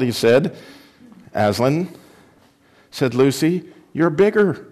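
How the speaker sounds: lively read-aloud to a church group; reading a children's book aloud; story reading. Acted. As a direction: bring the story to life for listeners. Reads Prince Caspian aloud.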